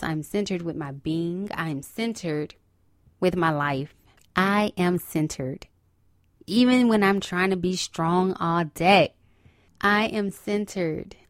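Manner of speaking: gentle mantra to open the show; calm affirmation. Acted. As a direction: recite it like a mantra, unhurried. Opening affirmation.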